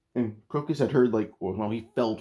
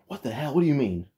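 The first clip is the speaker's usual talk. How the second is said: half-hearted mock scream, higher pitched; retold scream; 4 semitones higher than usual. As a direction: imitate a startled scream without really screaming. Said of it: "like, screams, like".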